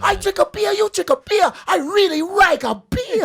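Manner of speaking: mock Asian accent. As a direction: parody a stereotyped Asian ad read. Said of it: "They want you to bow".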